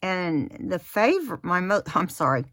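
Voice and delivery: talking around a pin in the mouth; words muffled by a pin between lips. Real, not acted. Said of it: "got a pin in my mouth".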